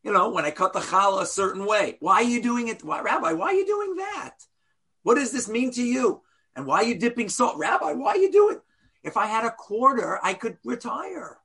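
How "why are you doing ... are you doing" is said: curious guest. Retold or imitated. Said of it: "someone sat at my table and said".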